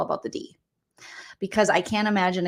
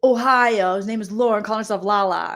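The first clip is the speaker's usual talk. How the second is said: mocking impression; 2 semitones higher, 5 dB louder than usual. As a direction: lay it on thick like a smug guy. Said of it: "he says".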